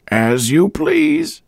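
very high, slow indifference; old woman voice. A narrator's reading. Landlady letting Boyce search, slow and indifferent. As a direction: shrug it off slowly.

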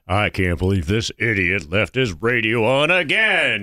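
slow, smooth announcer voice rising at the end; cool announcer voice. Retold or imitated. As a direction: play the calm radio announcer, drawn out. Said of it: "cool announcer voice".

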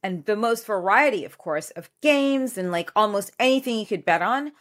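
upbeat sponsor read over music; punchy host advert delivery. Acted. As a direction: sell it like a podcast ad spot.

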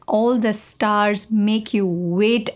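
slow conspiratorial whisper. Acted. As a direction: whisper it slowly like a secret. Repeats line as a secret.

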